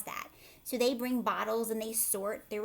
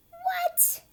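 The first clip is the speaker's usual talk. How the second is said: surprised; 4 dB louder than usual. Acted. Child reacts in story.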